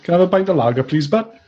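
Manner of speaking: "bud" said as "butt" in Welsh accent. Shown as a demonstration. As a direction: model the Welsh order for a learner. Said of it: "can you say it again".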